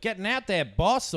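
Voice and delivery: high mock Aussie accent. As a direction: put on a broad Aussie twang. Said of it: "Aussie accents".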